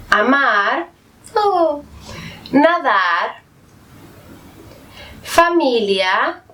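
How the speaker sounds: each word said alone with a clear open A, like Árbol and Palabra; teacher reading examples. Shown as a demonstration. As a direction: read the A words slowly for students to copy. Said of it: "Veamos nuestro primer ejemplo". (palabras con A, pronunciadas claras y despacio)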